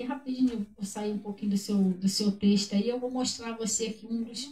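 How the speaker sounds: ordinary talk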